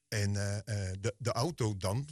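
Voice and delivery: humbly. Retold or imitated. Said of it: "vroeg ik nederig".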